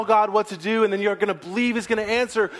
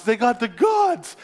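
insistent; 5 semitones higher than usual. Acted. Scout insists.

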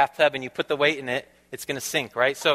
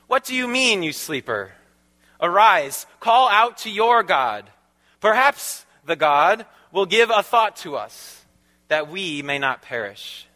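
louder, higher, slower call of a ship's captain; captain's rebuke; 3 semitones higher, 4 dB louder than usual. Acted. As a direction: rouse the sleeper, call it out.

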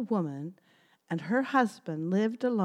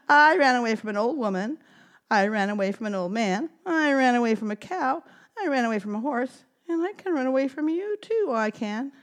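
gingerbread man voice; 5 semitones higher, 3 dB louder, faster than usual. Acted. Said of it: "But the gingerbread man".

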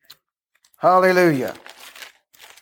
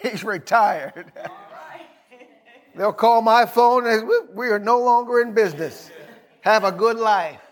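laughing. Real, not acted. Laughing while joking about retiring.

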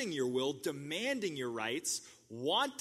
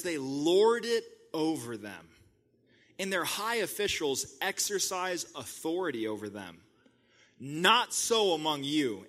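emphatic yell; 5 dB louder than usual. Retold or imitated. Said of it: "He's probably yelling".

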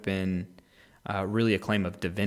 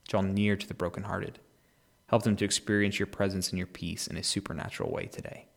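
prayer. Real, not acted. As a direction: pray gently over the listeners. Prays for the listeners.

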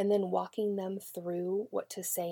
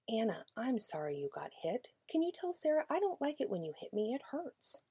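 teacher voice; 4 semitones higher than usual. Acted. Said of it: "Teacher says".

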